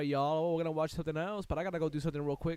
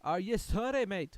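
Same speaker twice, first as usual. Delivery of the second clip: loud, rising are you sorry; mock accusing shout; 5 dB louder than usual. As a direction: demand an apology, question lifting on sorry. Mock-quoting the song at Britain.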